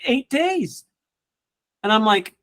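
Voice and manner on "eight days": high, small-voiced imitation; coaching client answering, in a high imitating voice; client's answer. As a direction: say it like it's forever. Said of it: "She's like".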